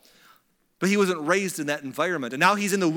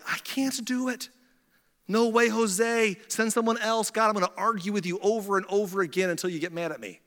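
put-on high-pitched, reluctant old man; whiny-stubborn mock refusal; old Moses; 4 semitones higher than usual. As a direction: refuse in a higher, protesting voice. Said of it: "Moses, the old man's like".

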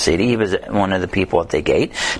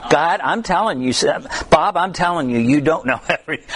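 flustered plea; 6 semitones higher, faster than usual. Retold or imitated. Panicked prayer when he cannot find John.

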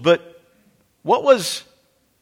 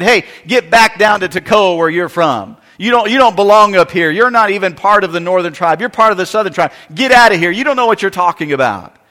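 loud scornful jeer, louder; louder mock rebuke telling Amos to go home; 2 semitones higher, 5 dB louder than usual. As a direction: tell the prophet to get out, sneering. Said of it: "They said".

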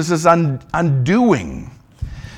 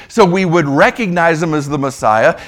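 ordinary delivery

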